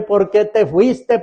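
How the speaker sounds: slow, pleading cry of a mourner; imitating a grieving relative's cry; mock wail. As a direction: wail it to the coffin, slowly. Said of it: "Llore y llore".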